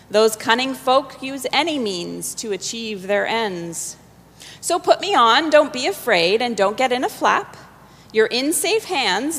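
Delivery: lilting read-aloud verse; recited rhyming song. A narrator's reading. Reader reciting the Sorting Hat's rhyming song to the congregation.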